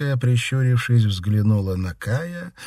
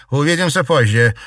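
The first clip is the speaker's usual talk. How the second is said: curt dismissal; 7 semitones higher, 8 dB louder than usual. Acted. Continuing the sharp dismissal.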